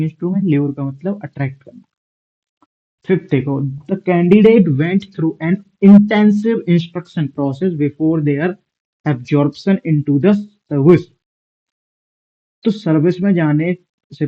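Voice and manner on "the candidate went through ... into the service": reading the exam sentence aloud, word by word; slow sentence reading. Shown as a demonstration. Teacher reading the sentence slowly to students. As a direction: dictate it slowly to the class.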